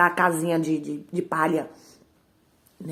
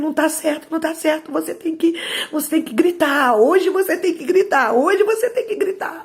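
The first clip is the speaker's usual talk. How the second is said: high, insistent repeats building louder; urgent inner urging; 8 semitones higher, 4 dB louder than usual. Retold or imitated. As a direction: build to a raised, impassioned cry. Inner voice urging child to scream.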